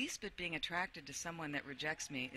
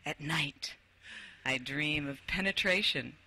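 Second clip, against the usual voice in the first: dramatic reading. Acted. Reads dramatic passage aloud.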